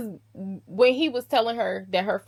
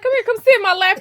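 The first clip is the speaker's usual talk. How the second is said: higher, louder teasing invitation; playful come-on; 11 semitones higher, 10 dB louder, much faster than usual. Retold or imitated. The husband beckons his bride to sit in his lap, loud and teasing. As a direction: call her over, cheeky and bold.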